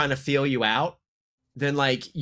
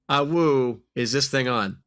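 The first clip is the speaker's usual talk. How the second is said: howling singer voice; slower than usual. Retold or imitated. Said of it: "Because of the guy singing".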